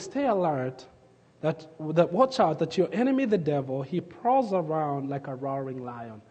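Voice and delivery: hushed scripture quote. Shown as a demonstration. Preacher softly recalling the verse to the congregation, hushed. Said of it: "the Bible says".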